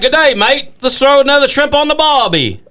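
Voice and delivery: hammed-up Australian tourist line in an Australian accent; mock Australian accent. Co-host mocks how he thinks Canadians speak, in a light Australian accent. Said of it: "Canadians speak like".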